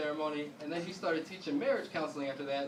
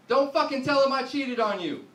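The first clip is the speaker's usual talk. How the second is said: loud, high hissed plea, pitched up; wife's frantic plea; 6 semitones higher, 8 dB louder than usual. Retold or imitated. Wife pleading with husband mid-call, loud frantic plea. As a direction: yell it in a panic, half under breath. Wife begging him not to tell dad.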